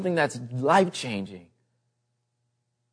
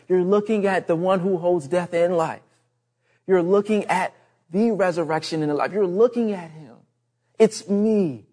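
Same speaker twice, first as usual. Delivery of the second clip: higher-pitched, emphatic proclamation as Jesus; 4 semitones higher than usual. Retold or imitated. Jesus declaring himself to those who doubt him, emphatic. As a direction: press each phrase home as Jesus speaking. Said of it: "he's like".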